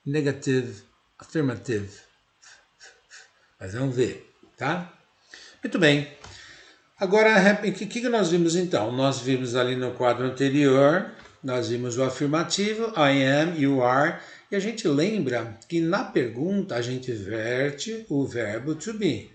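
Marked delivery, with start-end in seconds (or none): none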